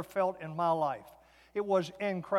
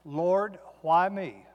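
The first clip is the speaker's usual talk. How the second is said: louder, pleading whine to God; complaining prayer; 5 dB louder, much slower than usual. Retold or imitated. To God from the hospital bed, aggrieved plea. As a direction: ask God why me, aggrieved. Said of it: "Here, here's what I said".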